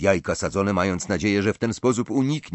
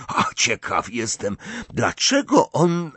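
curious question cut off mid-sentence; voice breaking off; 6 semitones higher than usual. A narrator's reading. Ron wondering about Dumbledore's choice, breaking off suddenly. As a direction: rise on the question, then stop dead. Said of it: "głos mu nagle zamarł".

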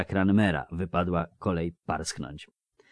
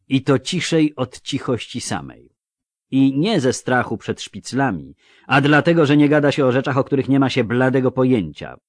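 raised, insistent dwarf voice; higher, forceful character voice; stern dwarf; 6 semitones higher, 7 dB louder than usual. Acted. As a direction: firmly rebuke loose talk. Voices dwarf Yarpen rebuking.

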